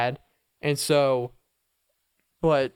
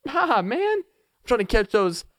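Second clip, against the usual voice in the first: surfer greeting a buddy about the waves, higher surfer voice; surfer dude; 6 semitones higher than usual. Pretend. Pretend surfer dialogue.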